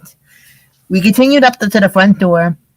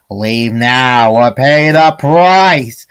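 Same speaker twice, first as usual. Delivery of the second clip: very slow, lower menacing warning; threatening voice; 4 semitones lower, much slower than usual. Acted. Doorbell voice threatening the gang, slow and low. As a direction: threaten them, dragging each word. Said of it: "the voice threatened".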